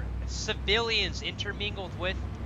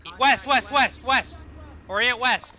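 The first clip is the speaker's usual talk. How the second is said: calling out; 3 dB louder, slower than usual. Real, not acted. Calling out direction to squad.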